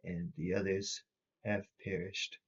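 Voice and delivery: flat monotone voice, barely his own. Acted. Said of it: "a very monotone voice that doesn't sound like his own".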